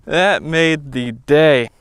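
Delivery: slow, savoring repeat. Real, not acted. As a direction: let the words linger, satisfied.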